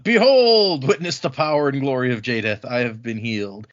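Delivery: shouted proclamation, then trailing off; hammed-up holy declaration; mock triumphant scream. Man bellowing to the empty walls, mock triumphant. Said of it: "he screams out".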